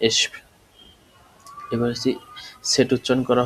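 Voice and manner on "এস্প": এস্প as a short separate cluster ending in p; pronunciation demo. Shown as a demonstration. Teacher showing how sp is pronounced, pronunciation demo. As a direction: sound out এস্প for the class. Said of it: "এরকম উচ্চারণ করা হয়".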